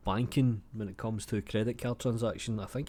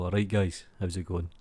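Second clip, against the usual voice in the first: really getting into it; 2 semitones lower than usual. Shown as a demonstration. Streamer shows how to say his greeting, getting into it. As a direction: get into the greeting. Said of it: "You need to get into it".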